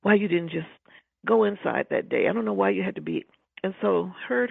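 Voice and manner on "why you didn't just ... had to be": louder, higher, exasperated scolding at a dead friend; mad fussing. Retold or imitated. Young woman at memorial scolds Michael, angry fussing. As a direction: fuss at him like a grieving friend who is mad. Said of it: "just mad, you know, just fussing".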